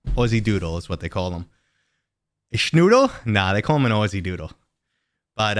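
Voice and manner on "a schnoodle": surprised question. Real, not acted. Mock question on dog breed.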